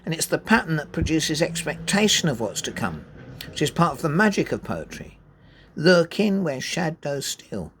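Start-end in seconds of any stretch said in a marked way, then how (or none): 5.7-7.7 slow, LURK-ing, SHAD-ows and STEAL leaned on; metrical stress. Shown as a demonstration. Teacher reading the line for its meter. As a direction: beat the trochee then two iambs. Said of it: "So trochaic and two iambs".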